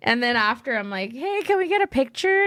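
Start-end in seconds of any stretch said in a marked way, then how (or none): 1.1-2.4 high-pitched polite ask; retold eager request. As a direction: act out asking a star for a photo, pitched up. Retold request to star for photo.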